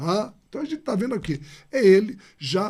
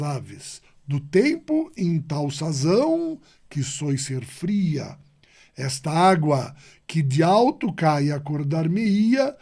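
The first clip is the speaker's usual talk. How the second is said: slow, measured poetry reading; poem recital; 3 dB louder, slower than usual. Acted. Teacher reciting Sá de Miranda to the class, measured. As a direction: recite it with weight, line by line.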